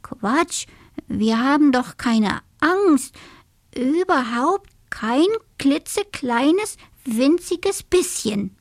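high, emphatic little-animal bravado; protesting denial. A narrator's reading. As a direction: insist piece by piece, swooping upward. Scared animals deny fear once more.

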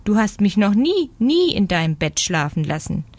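protestierende Meise. Acted.

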